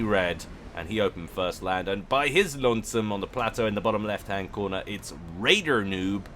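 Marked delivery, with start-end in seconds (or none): 5.4-6.2 American accent. Shown as a demonstration. Commentator introducing a player on the plateau, American accent. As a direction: slip briefly into an American accent. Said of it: "said that in an American accent".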